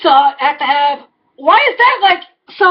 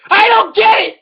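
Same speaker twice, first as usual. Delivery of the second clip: frustrated; 4 semitones higher than usual. Real, not acted. Rant, repeated line.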